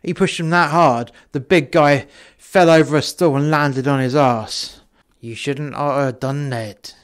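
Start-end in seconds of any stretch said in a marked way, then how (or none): 5.2-6.9 put-on slow, amateur Russian accent; measured Russian accent threat. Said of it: "You have to excuse my Russian accent".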